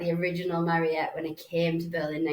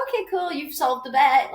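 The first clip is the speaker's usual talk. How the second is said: high, louder cheery sign-off; breezy brush-off; 8 semitones higher, 6 dB louder than usual. Retold or imitated. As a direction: wrap it up high and upbeat. Acting a cheerful exit line.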